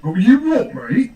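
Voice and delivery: British accent. Shown as a demonstration. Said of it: "You'll copy it exactly as I say it".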